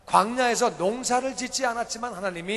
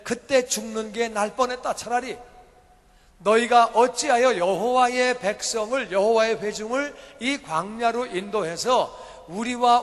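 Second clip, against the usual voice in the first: loud, slow accusing cry of the grumbling Israelites; complaining crowd; 4 dB louder than usual. Acted. Preacher voicing the thirsty Israelites confronting Moses, loud slow accusation. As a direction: hurl the grievance at Moses, slowly and loudly. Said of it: "막 이렇게 불평을 그렇게 하는 거예요".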